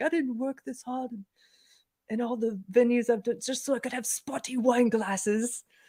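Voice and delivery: soft, high, loose put-on British accent. Retelling how a friend mimicked Paul McCartney's complaint, Paul McCartney accent. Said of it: "my friend was doing his accent like".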